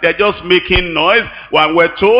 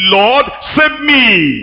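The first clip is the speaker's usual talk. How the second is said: said slowly, each word weighed; slow, deliberate plea; 5 semitones higher, much slower than usual. Shown as a demonstration. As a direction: pray it slow and pointed. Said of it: "That's how to pray".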